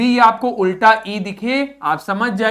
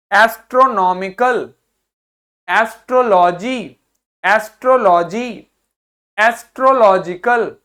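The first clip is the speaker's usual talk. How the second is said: loud repeat-after-me drill; 3 semitones higher, 5 dB louder than usual. Shown as a demonstration. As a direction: lead the class in loud repetition. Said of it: "मेरे साथ बोलिए". (मेरे साथ बोलिए, ज़ोर से)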